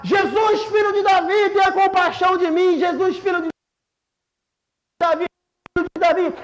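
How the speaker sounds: crying out. Acted. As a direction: call out pleadingly, without a full shout. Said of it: "ele começou a gritar". (clamor encenado, com a voz um pouco elevada)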